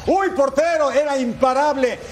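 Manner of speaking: sudden high cry at the keeper; excited goal call. Acted. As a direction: yell it like the ball flew in. Calling the unstoppable shot.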